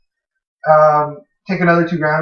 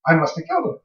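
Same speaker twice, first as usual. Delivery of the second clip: dread; 7 semitones higher, 4 dB quieter, faster than usual. Retold or imitated. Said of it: "And I'm like".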